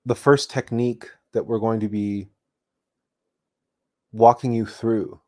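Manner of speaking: measured meditation talk with long pauses; meditation guide. Real, not acted. Meditation teacher introduces the first technique to listeners, measured and unhurried. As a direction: explain unhurriedly, pausing between phrases.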